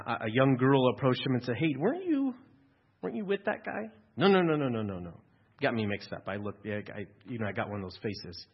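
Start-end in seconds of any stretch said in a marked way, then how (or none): 1.6-3.9 put-on high, questioning young girl; lightly voiced young girl, curious; girl's voice. Girl questions Peter in retold scene. 4.2-4.7 quick, raised no no no; panicked brush-off; flustered denial. Retold or imitated. Peter denies to the girl. 4.7-8.5 softer, muttered excuses; mumbled excuse. Retold or imitated.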